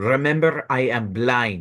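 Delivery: drawn-out, very slow growl. Answering a giggling enemy in character before initiative: growling. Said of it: "I'm just going to growl".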